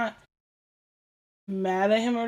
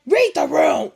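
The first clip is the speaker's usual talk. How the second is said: louder, exasperated exclaim; exasperated outburst; 4 semitones higher, 7 dB louder, slower than usual. Retold or imitated. Woman mimicking her fed-up reaction to a cheery coworker, exasperated outburst. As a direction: fling it out, fed up.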